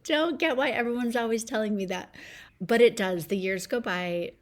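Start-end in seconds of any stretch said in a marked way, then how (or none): 0.0-2.1 higher, lightly voiced child's protest; hint of a whiny, baffled youngster; puzzled kid. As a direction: play a kid who doesn't get it. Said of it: "remember being a kid".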